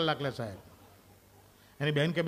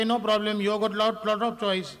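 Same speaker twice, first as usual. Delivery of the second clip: slow mock reassurance; 4 semitones higher, much slower than usual. Husband reassures wife.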